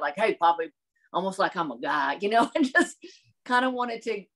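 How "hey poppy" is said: put-on hicky Southern accent. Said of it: "I just kind of talk like that".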